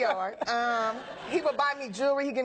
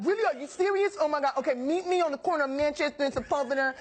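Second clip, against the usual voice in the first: excited; 3 semitones higher than usual. Retold or imitated. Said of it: "he was like".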